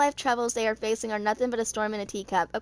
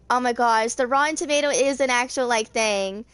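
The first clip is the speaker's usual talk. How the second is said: louder, a real burst of amused disbelief; amused surprise; 5 dB louder than usual. Real, not acted. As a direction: break off the reading, tickled by the name. Amused aside about the reviews.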